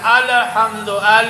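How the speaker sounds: echoing bounce after the lam in الحمد; mispronounced qalqalah. Shown as a demonstration. Teacher demonstrates the mistake for pupils, bouncing the lam. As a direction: release the lam of ال with a short extra vowel. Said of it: "غلط ہو جائے گا".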